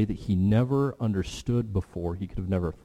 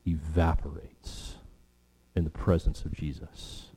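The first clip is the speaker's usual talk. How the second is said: hushed closing line; 5 semitones lower, 6 dB quieter than usual. Real, not acted. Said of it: "preacher softens for effect".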